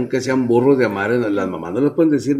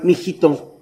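lightly voiced parent praising a failing kid; coddling parent; 4 semitones higher than usual. Modern parent comforts his failing son, mock sweet. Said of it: "Yo sé que la gente hace".

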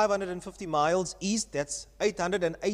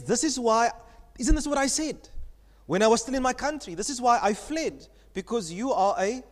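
angry Jonah; 4 semitones higher than usual. Retold or imitated. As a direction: retell Jonah's protest as if fuming at God. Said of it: "you can see that Jonah is angry, he's fuming, he's livid".

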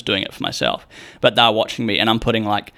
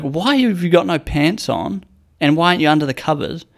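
puzzled mum; 5 semitones higher than usual. Retold or imitated. Mum questioning naked nap.

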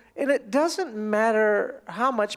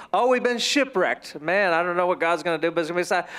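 sinking, lower mock gloom; dejected; 6 semitones lower than usual. Shipwrecked traveler unsure of God's plan, dejected. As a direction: let the energy drain as it goes. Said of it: "where their emotions is".

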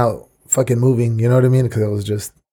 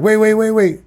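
panicky; 9 semitones higher than usual. Retold or imitated. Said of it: "I'm like".

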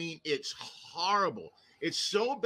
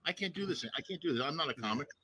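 despairing mutter; 3 semitones lower, 5 dB quieter, much faster than usual. Retold or imitated. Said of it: "standing by the cigarette machine going".

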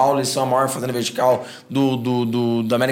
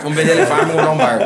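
laughing impression; 4 dB louder, faster than usual. Mocking the boss's whims, laughing.

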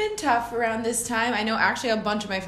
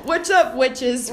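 imitating witch voice; 3 semitones higher, 7 dB louder, slower than usual. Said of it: "that's Ryan's witch, witch voice".

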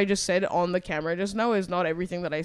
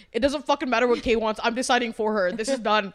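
defiant retort; 3 semitones higher, 4 dB louder than usual. Retold or imitated. Retelling her defiant response to friend.

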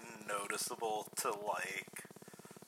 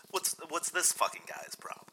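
put-on New York accent; 6 semitones higher than usual. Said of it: "it's a strong voice".

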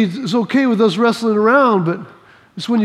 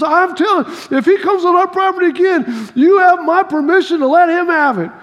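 lightly voiced mom, pitched up; fed-up mom; 5 semitones higher than usual. Mom telling her son he may fight the neighbor, mock fed-up. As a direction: imitate a mother laying down the law. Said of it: "She goes".

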